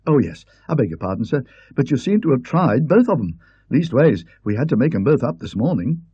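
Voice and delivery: put-on young maid asking the guest politely. Maid voiced by the narrator.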